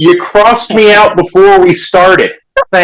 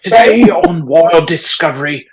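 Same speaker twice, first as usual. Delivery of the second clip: lightly voiced nature documentary narrator; hushed wildlife narrator delivery. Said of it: "that Discovery Channel documentary".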